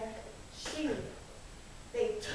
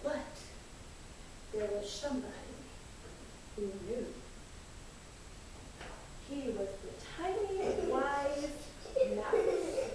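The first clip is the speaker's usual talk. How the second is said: softer, lower storyteller hush; hushed reveal of the tiny wise mouse; mysterious; 3 semitones lower, 10 dB quieter than usual. A narrator's reading. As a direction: lean in softly for the secret.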